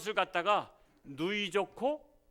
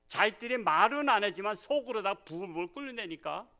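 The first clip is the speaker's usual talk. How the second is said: ordinary delivery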